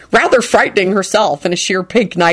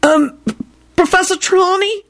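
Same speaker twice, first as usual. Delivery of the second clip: cross; 12 semitones higher than usual. Acted. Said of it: "Alex demanded crossly".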